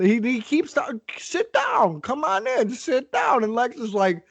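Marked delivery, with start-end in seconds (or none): 1.2-3.4 cheerful Volkov. Retold or imitated. Volkov voiced inviting Lex.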